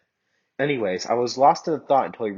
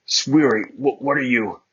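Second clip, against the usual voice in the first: startled; 4 semitones higher, 5 dB louder than usual. Acted. Surprised lover stammers.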